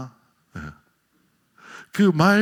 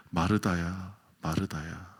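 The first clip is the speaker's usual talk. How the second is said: gentle call; 10 semitones lower, 11 dB quieter, slower than usual. Acted. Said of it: "예수님께서 마르다를 두 번 부르십니다".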